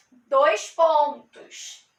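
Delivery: parênteses drawn out slowly; slow answer. Shown as a demonstration. Teacher slowly naming the parentheses for students. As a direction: stretch out parênteses for the class. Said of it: "E o último aqui".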